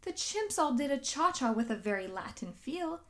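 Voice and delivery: put-on gentle rhyming read-aloud for children; storybook narration. A narrator's reading. Narrator reading Giraffes Can't Dance to children, lilting. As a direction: read the rhymes with a lilting bedtime swing. Reads picture book aloud.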